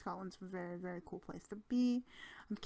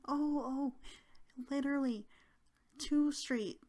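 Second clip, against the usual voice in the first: eager helper; 6 semitones higher, 5 dB louder than usual. Retold or imitated. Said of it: "he was like".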